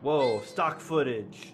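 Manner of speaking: mock awe. Real, not acted. Spotting stock footage in the film, slow mock awe. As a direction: stretch it out in mock wonder. Mocking film's stock shots.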